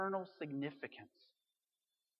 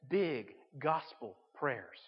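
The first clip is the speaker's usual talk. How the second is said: each word drawn out slowly; slow emphatic refrain; 4 semitones lower, 3 dB quieter, much slower than usual. Real, not acted. Preacher hammering his key phrase to the church, slow and weighty. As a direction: stamp the refrain home word by word.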